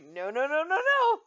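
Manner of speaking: loud, climbing string of refusals; exaggerated retold protest; mock refusal. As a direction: build to a high yell. Mimicking repeated refusal.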